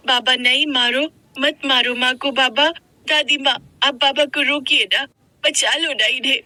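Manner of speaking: put-on high-pitched child begging anxiously; pleading little girl. Daughter begs father to stop beating her mother, high pleading.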